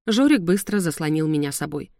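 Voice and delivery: usual speaking voice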